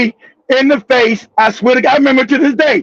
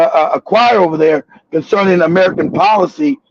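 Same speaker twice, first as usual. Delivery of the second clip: lower, prim official voice; lightly voiced, posh-sounding diplomat; lower, self-important speech; mock eloquent lady; 7 semitones lower than usual. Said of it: "this lady gave such an eloquent".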